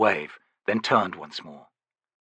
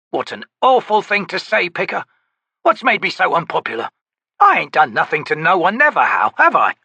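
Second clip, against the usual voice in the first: gruff, louder, higher grumble; growling soldier; 8 semitones higher, 5 dB louder than usual. Acted. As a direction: complain like a sore grunt. Ansi protests.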